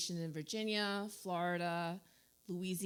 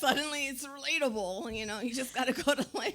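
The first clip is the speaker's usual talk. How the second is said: mock excitement; 7 semitones higher, 6 dB louder than usual. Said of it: "she's like".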